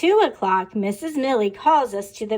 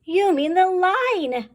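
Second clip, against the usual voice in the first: put-on high, slow, louder kids' call; mock yell; 8 semitones higher, 3 dB louder, slower than usual. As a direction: yell it like the whole class. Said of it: "we yell".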